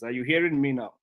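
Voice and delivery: ordinary delivery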